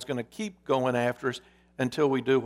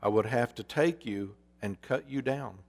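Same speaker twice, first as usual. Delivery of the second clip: lightly voiced solemn master, a little softer; grave master; 3 dB quieter than usual. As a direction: break the hard news gravely. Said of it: "the master's voice was grave".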